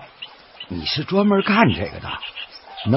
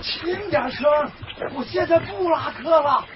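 softer, higher hushed reply; 9 semitones higher, 6 dB quieter, slower than usual. Acted. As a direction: keep it down, someone's near. (压低声音对游客说)

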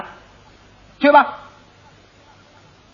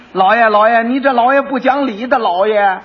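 loud, higher cry of protest; 4 semitones higher, 4 dB louder than usual. Acted. Quack protests loudly to the magistrate, crying out. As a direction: call out that it is unfair.

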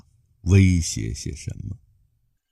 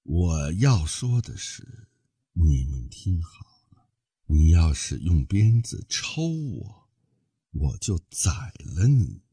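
hissing voice. Acted. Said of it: "用嘶嘶的声音说".

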